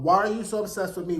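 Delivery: spoken lyric in a normal register; quoting a singer's song. Retold or imitated. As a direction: deliver the song line evenly, unhurried. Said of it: "like the song".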